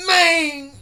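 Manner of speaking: loud high-pitched yell of disbelief; hyped outburst. Real, not acted. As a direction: yell it like you can't believe what just happened. Hyped reaction to senpai arriving.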